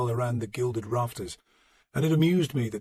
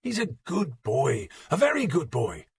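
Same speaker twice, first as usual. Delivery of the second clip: put-on tender old priest; 4 semitones higher, slower than usual. Beocca defends son.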